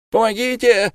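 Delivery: high desperate cry for help. A narrator's reading. Lamme cries for help against the women, high and desperate. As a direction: shout for rescue. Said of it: "кричал Лама".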